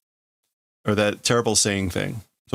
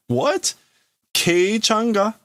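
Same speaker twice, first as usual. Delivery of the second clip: much higher, slow startled question; shocked disbelief; 12 semitones higher, 4 dB louder, much slower than usual. Acted. Friends hear news about Kei, high shocked question. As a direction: gasp it out in disbelief.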